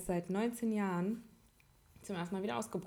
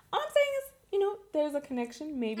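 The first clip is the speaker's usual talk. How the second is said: mock conspiracy; 8 semitones higher, 3 dB louder than usual. Conspiracy joke.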